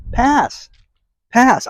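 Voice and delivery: high, curt dismissal; dismissive pass. Real, not acted. Host turns down the Chicago store trip, high curt dismissal. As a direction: wave it off flatly twice.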